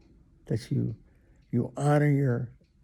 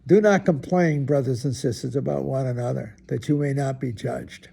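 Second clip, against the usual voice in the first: measured, proclaiming reading of scripture; 3 dB louder than usual. Acted. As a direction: read it out like a lesson in church. Reads scripture aloud.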